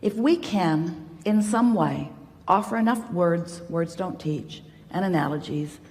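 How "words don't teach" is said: softer, dropped-in parenthesis; quiet throwaway interjection; muted aside. Real, not acted. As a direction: slip it under the sentence. Repeated wry aside interrupting own sentence.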